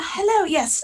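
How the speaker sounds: very high put-on schoolteacher voice. Describing someone going over and saying hello: put-on teacher voice. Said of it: "pull out teacher voice".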